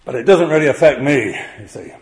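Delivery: a light voicing of a sceptical listener; imagined doubter. Preacher voicing a listener who shrugs the commandment off, mildly. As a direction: brush it off like a modern sceptic. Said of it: "you may be sat there thinking".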